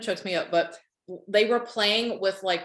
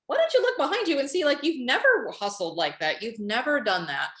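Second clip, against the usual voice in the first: higher, quick chiding of oneself; lightly acted self-reproach, pitch jumping up at the start; incredulous self-talk; 4 semitones higher than usual. Host telling herself to look back, mildly incredulous. Voices her own belated realization.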